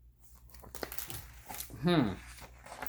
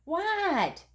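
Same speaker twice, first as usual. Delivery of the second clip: high Froggy voice; 12 semitones higher than usual. Acted. Froggy answers his mother.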